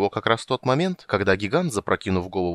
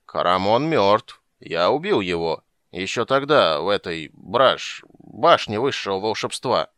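put-on slow, heavy drunken solemnity; slurred dark confession; drunk pretending; 4 dB louder, slower than usual. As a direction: play the doomed mage while drunk. Drunk claims to be Raistlin.

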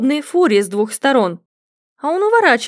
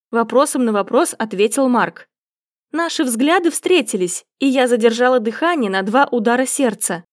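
plain reading voice

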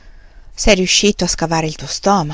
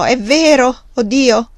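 loud, high pleading cry to God; desperate shout to heaven; anguished cry; 5 semitones higher, 3 dB louder than usual. Acted. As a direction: cry out in terror of abandonment. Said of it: "gridò".

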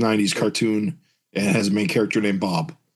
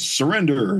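raised-pitch mild mock yell; 5 semitones higher than usual. Guard rolls up on the Durlin, mildly yelling. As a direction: call it out as a half-hearted shouted order. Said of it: "he yells".

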